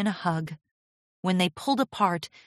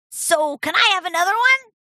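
put-on pleading young dragon; 12 semitones higher, 7 dB louder than usual. A narrator's reading. Spike begging gem.

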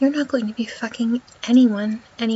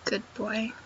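much softer, approving praise; 9 dB quieter than usual. Acted. Goddess rewarding her obedient partner, soft praise. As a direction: drop the volume to reward obedience.

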